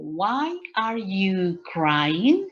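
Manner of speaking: very slow, careful question; slow model question. Shown as a demonstration. Teacher modelling a question for students, very slow. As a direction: spell out the question slowly for the class. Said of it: "If I ask you, for example".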